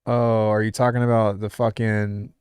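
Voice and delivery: loud, slowed jab at the gear guy type; mock gear-guy voice. Producer mocking gear guys to the chat, loud.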